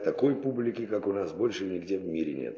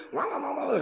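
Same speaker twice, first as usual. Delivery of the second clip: high-pitched "va-va-va" babble; strange voice babble. Retold or imitated. Mimicking translators heard through a thousand earpieces, strange high babble. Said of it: "какой-то голос странный".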